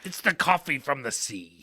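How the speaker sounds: put-on pirate voice. Joking about the beer's coffee, pirate voice. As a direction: joke it in pirate character. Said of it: "say it like a pirate".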